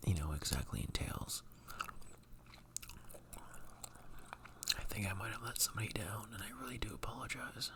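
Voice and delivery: breathy whisper to the mic. Real, not acted. Whispers all through.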